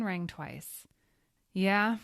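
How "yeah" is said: gravelly man. Acted. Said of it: "a man with a gravelly voice said".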